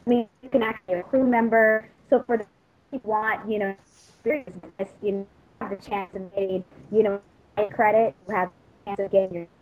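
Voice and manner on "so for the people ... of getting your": choppy, cutting-out line; radio breaking up. Real, not acted. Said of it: "you're breaking up for me".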